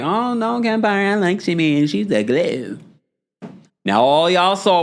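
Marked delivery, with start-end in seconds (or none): 0.0-2.8 high mocking voice of doubting fans; parroting the viewers who disagreed, high and teasing. Host mocks viewers who defended Shamea, high and teasing. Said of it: "y'all at the time were like".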